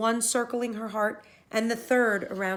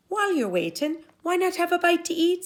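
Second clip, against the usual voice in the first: higher, sweet offering; hostess Una; 11 semitones higher, 5 dB louder than usual. Acted. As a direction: lure him to the trap bread.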